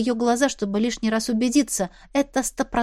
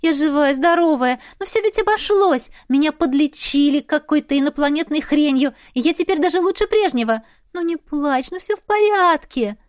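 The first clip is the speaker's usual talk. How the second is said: high, louder coaxing comfort; soothing sister; 6 semitones higher, 4 dB louder than usual. A narrator's reading. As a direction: coax a crying sister to stop. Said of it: "вытирала мне слёзы, приговаривая".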